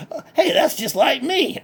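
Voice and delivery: lightly voiced country hick, cheerful and boastful; redneck Bubba. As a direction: play a proud backwoods redneck bragging. Bubba chimes in.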